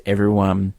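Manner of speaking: low, measured voiceover read; voiceover narration. Acted. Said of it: "Willard with the voiceover goes".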